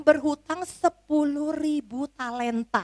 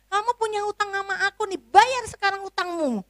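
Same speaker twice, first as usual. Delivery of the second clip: much higher, fast demand; fierce servant; 8 semitones higher, faster than usual. Acted. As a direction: demand payment right now.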